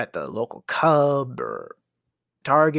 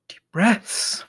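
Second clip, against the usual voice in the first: whispered self-calming; 6 semitones higher than usual. Real, not acted. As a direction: whisper to yourself to calm down. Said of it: "Deep breaths, Jack".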